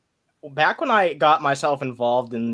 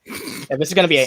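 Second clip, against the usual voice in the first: stoned voice. Retold or imitated. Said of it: "I just sounded stoned".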